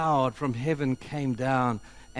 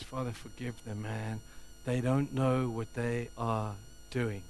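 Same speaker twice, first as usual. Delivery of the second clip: much softer, gentle prayer; Jesus on the cross, soft and pleading; tender plea; 7 dB quieter than usual. Acted. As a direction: plead softly for them.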